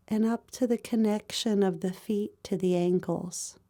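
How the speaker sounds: calm, even meditation voice with long pauses; guided body scan meditation. Real, not acted. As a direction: guide them gently through the body, pausing between phrases.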